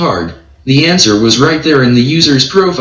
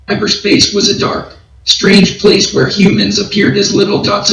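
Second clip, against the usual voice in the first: higher, even robotic read; higher, level robotic voice; monotone cyberspace narration; 7 semitones higher than usual. A narrator's reading. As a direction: glide through the dark cyberspace in a higher, level voice. TTS voice shifts for cyberspace description.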